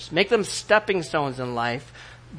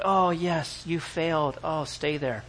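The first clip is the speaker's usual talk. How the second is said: mock pity; 7 dB quieter, slower than usual. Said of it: "He's not gonna have pity for".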